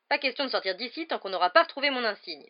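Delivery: loud, high, adamant exclamation; crying out. A narrator's reading. Percy refusing to leave without his badge, crying out. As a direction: forbid it at full voice. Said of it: "s'écria Percy".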